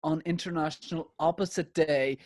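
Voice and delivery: Louis Walsh. Retold or imitated. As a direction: lightly imitate a judge springing a twist. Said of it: "Louis will go".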